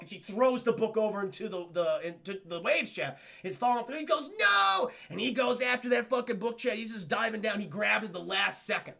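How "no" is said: high, loud drawn-out no; desperate mock shout. Brooklyn watching the book fall, shouting in despair. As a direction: cry out as it falls away.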